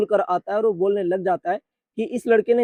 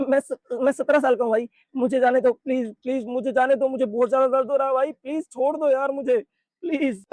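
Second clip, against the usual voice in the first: higher, begging, a touch of whimper; pleading in pain; 3 semitones higher than usual. Acted. Bully on his knees begs Daegun to let go, lightly pained pleading. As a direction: plead weakly for him to let go. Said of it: "चिल्लाना बंद कर".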